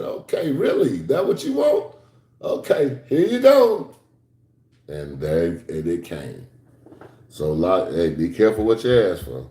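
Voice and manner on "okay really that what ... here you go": high, teasing, laughing; amused God voice. Retold or imitated. God granting the preacher's wish for tears, mock amused. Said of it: "he said".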